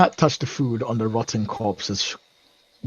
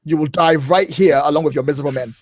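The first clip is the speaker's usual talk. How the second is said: commanding threat; 4 dB louder than usual. Acted. Threatening pirate captain in combat.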